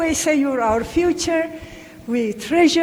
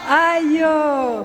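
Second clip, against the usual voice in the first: Ayo called out loud so everyone joins in; shouted Ayo. Shown as a demonstration. Elder urging the children to say mother loud, shouting. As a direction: belt out Ayo for the crowd. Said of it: "Say it out loud".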